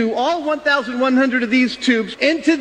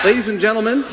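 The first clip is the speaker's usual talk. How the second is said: laughing; 3 semitones lower, faster than usual. Real, not acted. Announcing through laughter.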